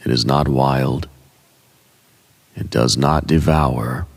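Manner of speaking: ordinary talk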